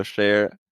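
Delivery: chair pronounced as "share"; Swedish sh for ch. Shown as a demonstration. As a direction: open "share" with sh instead of ch. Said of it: "they can't say ch".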